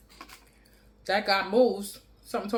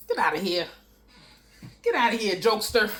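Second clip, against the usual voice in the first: amused, teasing dismissal; laughing; 3 semitones higher, 5 dB louder than usual. Real, not acted.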